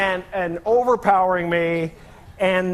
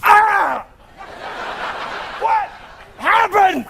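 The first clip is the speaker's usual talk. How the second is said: panicked screaming; 12 semitones higher, much slower than usual. Retold or imitated. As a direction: shriek like something's stuck on you. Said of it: "they would have said something like".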